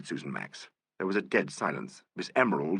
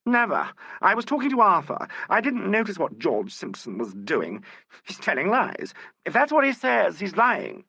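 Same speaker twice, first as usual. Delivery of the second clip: loud, high protest of innocence; frantic denial; 11 semitones higher, 4 dB louder than usual. A narrator's reading. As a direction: fling the accusation back. Accused woman denies loudly.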